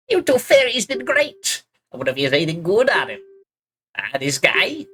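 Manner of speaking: twist it into a creepy creature; fucked up creature voice. Shown as a demonstration. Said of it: "you have to give him a fucked up voice".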